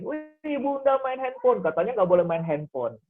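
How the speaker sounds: put-on high, teasing child's gotcha voice; a playful child calling out a parent; child catching mom out. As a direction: catch mom red-handed like a smug kid. Child catches mother breaking rule.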